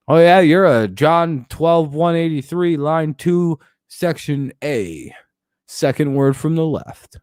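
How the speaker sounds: imitating a pedantic scripture put-down; mock Bible-quote insult. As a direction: draw out each part of the citation as a pretend insult. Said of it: "like, insult people".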